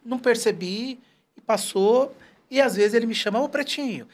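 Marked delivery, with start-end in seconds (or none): 3.4-4.1 higher, fond, playful calling out; affectionate call. Retold or imitated. Childhood friend calling him, lightly voiced affection. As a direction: greet him like a dear brother. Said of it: "de uma forma muito carinhosa".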